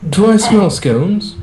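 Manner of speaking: slow, high, eager ask; drawn-out hungry plea for scones; hungry Pete. Acted. Agent sniffing out breakfast, eager and slow. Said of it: "The familiar and perpetually ravenous voice".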